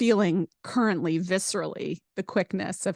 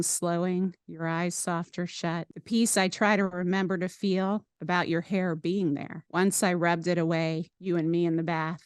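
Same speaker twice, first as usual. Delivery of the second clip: poem reading. Acted. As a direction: read it gently, savouring each line. Reads her own poem aloud.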